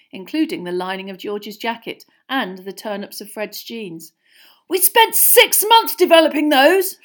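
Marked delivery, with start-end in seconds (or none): 4.7-7.0 high, loud outrage; indignant shout; shouted protest. A narrator's reading. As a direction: yell back at your mother. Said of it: "Fred shouted at his mother".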